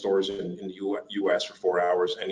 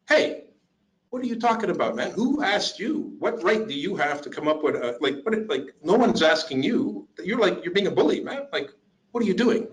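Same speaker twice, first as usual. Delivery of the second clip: indignant defender; 8 semitones higher than usual. Acted. Standing up to a man insulting your sister, indignant and high. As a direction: confront the man, stretching words in protest. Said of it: "You'd be like".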